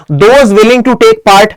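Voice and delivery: very slow, weighted reading; slow dictation. Shown as a demonstration. Teacher reading the notice phrase aloud, very slow. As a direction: lay each word down slowly. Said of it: "अब जाहिर सी बात है".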